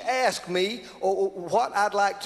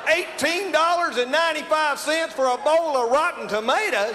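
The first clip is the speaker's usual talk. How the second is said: mock outrage; 4 semitones higher than usual. Outraged at the price.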